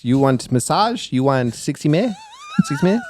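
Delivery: put-on lightly done Asian-accented shop lady; light Asian accent, questioning; Asian accent imitation. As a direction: mimic the shop lady's Asian-accented broken English. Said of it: "I can do the impression".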